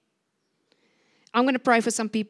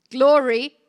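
a sudden loud cry of Glory; shouted praise; 10 dB louder than usual. Real, not acted. Preacher to the congregation, a loud shout of praise. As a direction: burst out with Glory at full volume.

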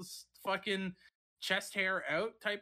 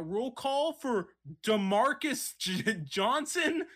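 a lightly voiced, higher nerdy guy answering roll call; white guy at roll call; 5 semitones higher, slower than usual. White guy answering teacher's roll call, lightly voiced and chirpy. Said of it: "the whitest guy you've ever seen".

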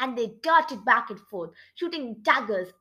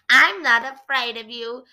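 taunting, with the nickname stretched out; mock him, loud then slow on the name; lightly voiced taunt; teasing; 4 dB louder than usual. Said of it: "he teased Grandpa".

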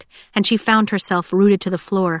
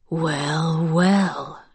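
musing; 2 semitones lower, 3 dB quieter than usual. A narrator's reading. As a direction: muse it slowly and quietly, toying with prey. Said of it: "he mused".

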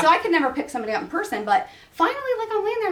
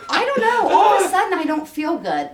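higher, laughing, quoting his complaint; laughing through quote; 5 semitones higher than usual. Retold or imitated. Friend quotes dizzy date while laughing. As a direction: giggle while telling it.

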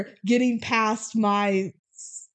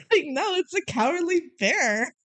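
laughing; 9 semitones higher than usual. Retold or imitated. Laughing while quoting the bear.

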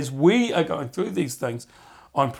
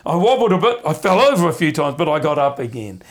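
eager testimony; 2 semitones higher, 5 dB louder than usual. Pretend. Voicing a testimony.

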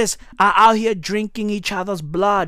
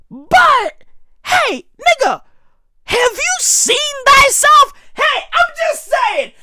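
high shouted taunt; 14 semitones higher than usual. Real, not acted.

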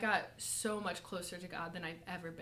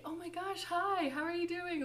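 gushing pastor greeting; 10 semitones higher than usual. Retold or imitated.

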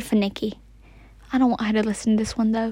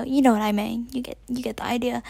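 playful conspiratorial whisper, a touch faster at the end; faster than usual. Real, not acted. Aside to her podcast listeners, whispered. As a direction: drop to a secret whisper in the British accent.

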